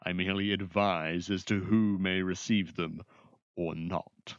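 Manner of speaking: lightly voiced formal, measured official; haughty sorcerer.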